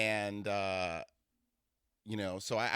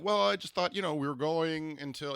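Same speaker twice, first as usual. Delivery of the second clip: higher, louder put-on announcer voice; imitating his date; 6 semitones higher, 4 dB louder than usual. Woman mimicking her date explaining himself, announcer-like impression. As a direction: put on his measured, formal delivery. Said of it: "he's like this".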